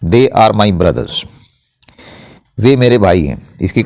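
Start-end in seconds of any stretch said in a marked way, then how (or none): 0.0-1.2 very slow, word by word, each word set apart; slow dictation. Shown as a demonstration. Teacher dictating an example sentence to students, very slow and deliberate. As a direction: spell out the sentence slowly for the class. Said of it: "तब नहीं होगा।".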